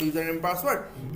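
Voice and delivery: 'यूजर name and password' repeated slowly and clearly; slow, careful repeat. Shown as a demonstration. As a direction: stretch out 'user name and password' for note-taking. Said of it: "password बोलते हैं ना".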